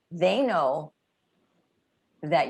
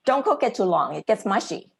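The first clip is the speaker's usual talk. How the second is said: brisk, bossy kitchen order; blunt order; 3 semitones higher than usual. Shown as a demonstration. Coach shows learners a curt unfriendly order to the chef. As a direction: snap it out like a curt command. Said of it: "it doesn't sound very friendly and welcoming".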